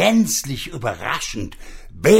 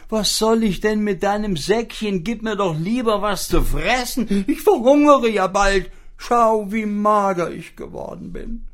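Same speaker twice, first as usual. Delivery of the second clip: high whining starving pig; poor pig voice; 10 semitones higher, 4 dB louder than usual. Acted. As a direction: beg for food in a high, thin pig voice. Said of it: "sagte das arme Schwein".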